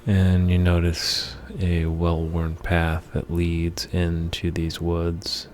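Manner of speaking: measured meditation voice with long pauses between phrases; guided meditation. Acted. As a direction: lead the listener through the imagery phrase by phrase, unhurried. Leads a guided meditation for anger.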